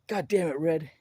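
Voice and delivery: a gruff master chief snapping at him; mock angry yell. Master chief snapping at a young sailor, mock angry. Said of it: "He's like".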